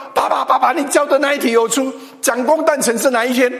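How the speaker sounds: put-on a girl bursting to tell her dad; excited daughter. 女儿向爸爸报告考题，急切兴奋. Daughter reports the exam question.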